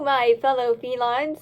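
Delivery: lightly deepened disguise voice; a hint of a gruff stranger; deep voice. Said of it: "said Dolly in a deep voice".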